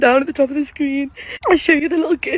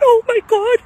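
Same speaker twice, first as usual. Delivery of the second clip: high and loud oh my God; retold cry of shock; 9 semitones higher, 5 dB louder than usual. Retelling her reaction to mum, loud high surprised cry. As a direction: burst out at the sight. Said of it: "I went".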